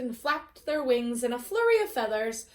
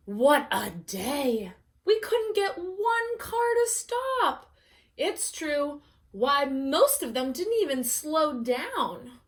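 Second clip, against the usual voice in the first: hens collapse after a long day; exhausted hens; 2 semitones higher, slower than usual. Acted. Tired hens complain to peacock, slow and weary.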